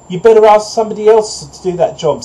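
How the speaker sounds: high, loud duck voice; duck refusing. A narrator's reading. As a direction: brush off the request, high and loud.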